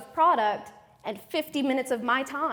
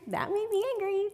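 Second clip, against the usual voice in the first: laughing aside; 9 semitones higher, 4 dB quieter than usual. Acted. Laughing aside within husband anecdote.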